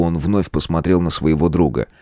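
plain reading voice

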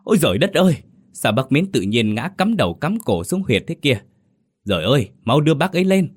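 high, shocked cry turning into a hurried call; alarmed outcry. A narrator's reading. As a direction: shout out in sudden horror. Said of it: "tá hỏa kêu lên".

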